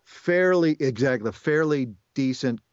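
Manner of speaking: demonstrated nasal Australian accent; nasal Aussie accent. Shown as a demonstration. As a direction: push Cockney into the nose for Aussie. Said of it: "Aussie accent".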